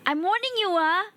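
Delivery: teasing threat to a friend in chat; mock warning. Playful mock threat to chatter.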